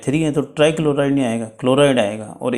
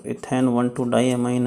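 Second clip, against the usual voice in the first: each word spelled out slowly for notes; "ethane one two diamine" read slowly, word by word; slow dictation; much slower than usual. Shown as a demonstration. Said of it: "बता देता हूँ आपको कि E N क्या है". (धीरे-धीरे लिखवाते हुए)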